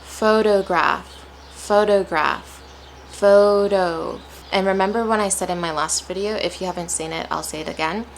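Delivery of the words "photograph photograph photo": "photograph" slowly, weight on the first syllable; careful teacher demo of "photograph"; natural word stress. Shown as a demonstration. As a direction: stretch PHO in "photograph" and "photo". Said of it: "every word has a natural stress".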